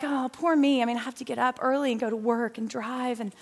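lightly acted poor-me complaint; mock self-pity. Speaker mimics her old self feeling sorry for herself, mock self-pity. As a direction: softly moan as if sorry for yourself. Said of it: "I always felt bad for myself".

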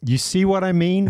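retold punchline. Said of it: "and I just said".

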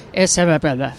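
garbled mock Australian mumble; mimicked Australian accent. Fan giving their name at a signing, mock Australian accent. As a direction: run a name together in an unintelligible Australian accent. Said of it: "laughing because with the accents".

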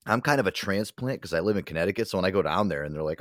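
usual speaking voice

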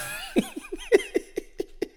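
high burst of laughter; wheezing laugh. Real, not acted. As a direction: crack up at the joke. Laughing at own bit.

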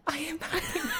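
high, giggly mock yoga girl. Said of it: "little blonde girls that do yoga that are like".

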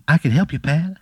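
squeaky high cartoon pickle calling out; little pickle shouting up from the plate; tiny pickle voice. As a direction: call up from below in a tiny squeaky voice. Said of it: "and he goes".

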